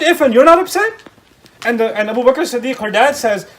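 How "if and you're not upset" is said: much louder and higher, outraged; indignant outburst. Retold or imitated. Aisha furious at her parents' silence, loud and indignant. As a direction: burst out at the unfairness. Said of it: "she's so mad".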